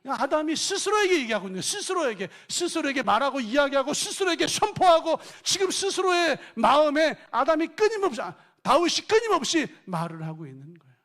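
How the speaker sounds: loud, high fervent sermon voice; full-force preaching. Acted. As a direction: press the question on the congregation.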